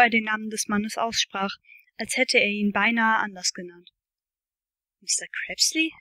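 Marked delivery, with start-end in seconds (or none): 5.0-5.9 a touch of baffled rising question; puzzled question. A narrator's reading. Narrator puzzled by Steve's answer, rising. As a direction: ask back, mildly bewildered. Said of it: "fragte ich verdutzt".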